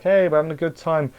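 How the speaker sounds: high-pitched mock cheer; light and cheerful. Reviewer mimicking the show's light mood, cheerful. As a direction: chirp it like a carefree party. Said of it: "it went from, you know, light".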